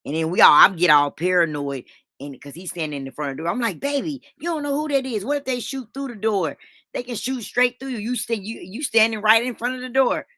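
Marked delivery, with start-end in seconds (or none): 3.8-10.2 higher-pitched, anxious pleading with husband; retold panicky warning, words tumbling out; urgent warning. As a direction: plead with him to move, pitched up.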